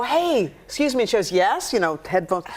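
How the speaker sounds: a touch of a proud mom calling out. Retold or imitated. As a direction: show off her brave daughter. Mom calls to passing lady.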